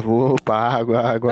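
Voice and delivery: loud, low hawker's reply; water seller. Retold or imitated. Water seller answering about his wife, loud low call.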